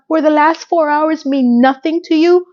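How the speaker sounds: high, indignant mock yell; retold scream. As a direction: imitate her screaming out, without full volume. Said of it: "And she screams out".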